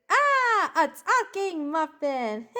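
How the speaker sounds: high wail, then slow drawn-out words; hammed-up muffin shriek of alarm; mock scream. Muffin screams at a talking muffin, mock horror. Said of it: "The other muffin starts to scream".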